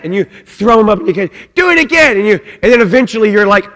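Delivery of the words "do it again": put-on higher, eager kid begging to go again; excited child's plea. Child begging dad to throw him again, eager and high. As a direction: bounce it up like a thrilled toddler.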